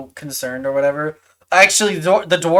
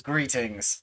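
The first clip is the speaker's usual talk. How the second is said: low, soft dwarf voice; lightly voiced dwarf, quiet and low; dwarf greeting; 6 semitones lower, 10 dB quieter than usual. Dwarf greets the newcomer, low and subdued. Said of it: "He says".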